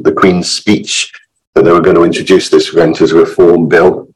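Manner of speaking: hoarse, croaky from illness; rough, croaky voice getting over illness. Real, not acted. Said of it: "my croaky voice".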